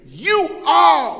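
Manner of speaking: slow, deliberate retold accusation; greater certainty. Woman identifying Peter to bystanders, certain accusation. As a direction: state it as a certain accuser, leaning on each word. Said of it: "she spoke with greater certainty".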